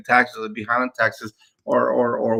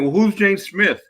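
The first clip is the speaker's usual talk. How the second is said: pointed curious question; 7 semitones higher, slower than usual. Pretend. Agent asks seller about title.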